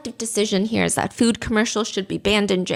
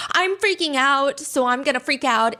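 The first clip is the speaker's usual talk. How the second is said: mock frantic, higher at the start; dramatic franticness; 4 semitones higher than usual. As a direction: act out a mild freak-out. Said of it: "a sense of dramatic franticness of".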